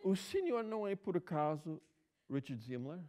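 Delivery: imitating a curious lady; a lady's high, curious question. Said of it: "Ela olhou para mim". (senhora curiosa, voz aguda, a perguntar)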